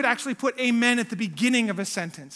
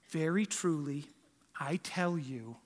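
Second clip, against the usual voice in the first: hushed, gentle whisper; soft kindergarten-teacher voice; 5 semitones lower, 8 dB quieter, slower than usual. Shown as a demonstration. Preacher mocks a sweet, calm Jesus: breathy whisper. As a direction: whisper it like a teacher soothing small kids. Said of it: "like a kindergarten teacher".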